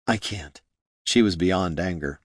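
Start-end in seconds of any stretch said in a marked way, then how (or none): 0.1-0.6 soft, defeated refusal; barely audible, worn out. Acted. Exhausted student gives up.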